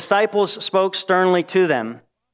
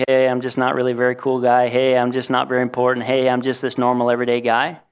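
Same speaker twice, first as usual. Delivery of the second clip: lower, mopey self-pity, mockingly; mock moping; 5 semitones lower than usual. Preacher mocking a self-pitying Jesus, mopey and low. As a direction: sulk it like a sad nobody. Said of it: "just moping around and being like".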